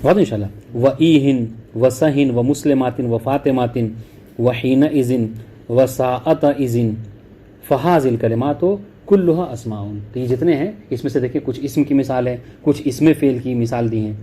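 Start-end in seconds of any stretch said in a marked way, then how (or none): 0.8-9.9 slow, deliberate textbook reading; measured classroom reading of the text; reading the Arabic text. Acted. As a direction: read each Arabic word out clearly, one by one. Reads the Arabic source text.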